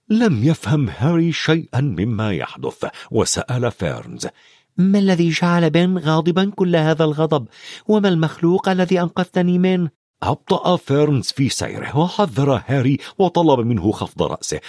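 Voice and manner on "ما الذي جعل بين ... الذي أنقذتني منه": put-on higher boyish voice; Harry asks the centaur, boyish and curious; young Harry. A narrator's reading. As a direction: ask like a puzzled boy on horseback.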